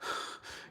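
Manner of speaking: soft, voiceless exhale; imitated sigh. Imitating the man sitting in his tent, sighing softly. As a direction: let out a quiet breath. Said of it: "just sitting there just kinda like".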